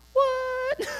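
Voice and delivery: very high-pitched shocked squeal; hammed-up retold shriek of disbelief; freaking out. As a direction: squeak it out, stunned and panicked. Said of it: "I was freaking out".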